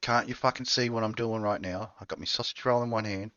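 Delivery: aussie tradesman. Acted. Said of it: "It's so Aussie".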